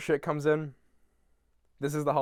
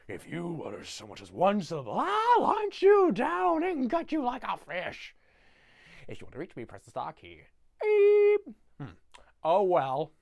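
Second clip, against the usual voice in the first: outgoing voicemail; 4 dB louder than usual. Retold or imitated. The Grinch's voicemail greeting, deadpan with a sudden yelled threat. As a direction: read the message deadpan, then snap into a threat. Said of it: "it says".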